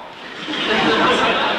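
breathy high chuckle; amused laugh. Real, not acted. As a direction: laugh it off lightly. Lecturer laughs at the joke.

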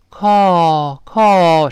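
American "call", open like a sigh; American pronunciation. Shown as a demonstration. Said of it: "美式发音呢".

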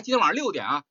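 六点 picked out as the key word; stress on 六点. Shown as a demonstration. Teacher shows a reminder not to be late, stressing 六点. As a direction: lean on 六点 so the time is clear. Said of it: "你别迟到".

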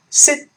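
"Syd-" stopped dead on the D; "Syd-", tongue pressed to the gum, no burst; unreleased D. Shown as a demonstration. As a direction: hold the D in "Syd-" without releasing it. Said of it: "一定是失去爆破".

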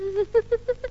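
quiet, stifled stage sobs; soft crying. Acted. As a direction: sob softly. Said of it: "不要哭啦".

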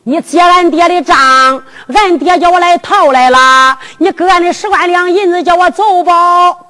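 drawn-out, humble plea to a magistrate; slow humble plea. Retold or imitated. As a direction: kneel and beg the official, slowly. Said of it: "我说：".

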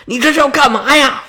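high-pitched fed-up wife; storyteller acting out an exasperated queen; angry. A narrator's reading. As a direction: snap at your husband, pitched high. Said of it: "这王后就生气了".

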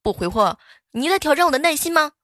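loud, angry possessive boss; domineering CEO. Acted. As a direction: scold her like a jealous CEO. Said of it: "都是一股霸道总裁的范儿".

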